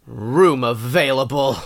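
slow, heavily drawn-out angry reading. Acted. Co-host asks for this listing read angry, angry. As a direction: read the listing with controlled anger. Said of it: "I want you to read this angry".

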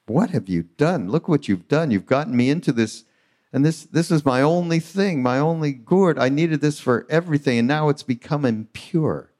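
hammed-up fury over the ruined gourd; retold angry scream. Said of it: "he starts screaming at Maharaji".

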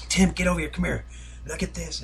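high, eager calling out to a friend; excited call. Retold or imitated. Ballplayer calling his friend over, excitedly high.

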